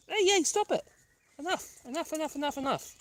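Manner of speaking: firm scolding; telling the dogs off. Real, not acted. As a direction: break up the dogs. Stopping dogs squabbling.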